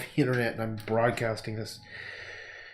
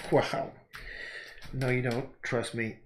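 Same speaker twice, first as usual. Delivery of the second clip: quiet; 9 dB quieter, slower than usual. Retold or imitated. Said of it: "And I'm like".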